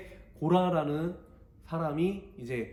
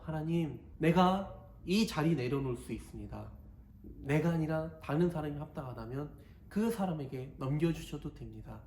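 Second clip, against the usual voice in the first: surrendering prayer; 5 dB quieter than usual. Acted. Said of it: "기도하면서".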